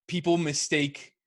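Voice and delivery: "people mistake" said slowly and deliberately, weight on "people"; slow right down on "people mistake"; slow emphatic restart. Real, not acted.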